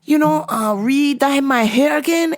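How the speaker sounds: high imitation of the old Asian mom; friend's Asian mom. Customer mom asking the clerk to re-dye her hair, high mimicked voice. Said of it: "she goes".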